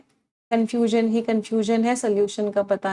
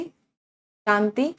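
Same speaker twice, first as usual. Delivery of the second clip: drawn-out shanti; much slower than usual. Shown as a demonstration. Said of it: "शांति के भी मुझे कुछ words बता दो".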